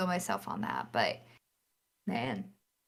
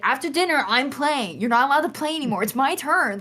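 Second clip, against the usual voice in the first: higher, insistent mock demand; imitating bossy mom; 4 semitones higher than usual. Mom claiming the game after dinner, retold insistently. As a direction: squabble like a sibling, pitched up.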